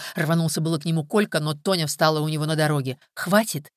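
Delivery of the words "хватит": sharp order to stop; commanding. Acted. Tonya stops the two men fighting, firm command. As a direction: cut them off with a firm command. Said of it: "приказала она".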